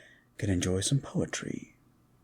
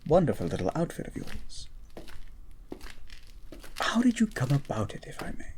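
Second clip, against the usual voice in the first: whisper; 4 semitones higher, 4 dB quieter, faster than usual. Acted. Asking teasingly about her outfit.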